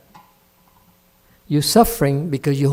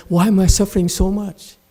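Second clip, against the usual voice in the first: mildly high, louder mock whine; mock whining; 5 semitones higher, 5 dB louder than usual. Master imitates a student whining about suffering, mock whine. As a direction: parody a self-pitying complaint. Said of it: "you're also whining and say".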